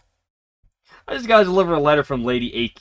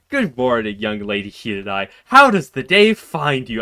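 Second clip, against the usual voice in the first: imitating Iku; 4 dB louder than usual. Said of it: "I could talk like this".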